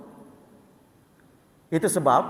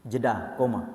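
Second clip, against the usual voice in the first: low, soft spoken stage direction; dropped aside; 9 semitones lower, 8 dB quieter than usual. Shown as a demonstration. Preacher marking a pause in a sample sentence, low aside. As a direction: drop low and quiet for the aside. Speaks the pause aloud in demo.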